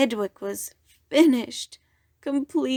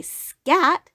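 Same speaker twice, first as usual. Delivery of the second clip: mock shout; 7 semitones higher, 5 dB louder than usual. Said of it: "You couldn't say".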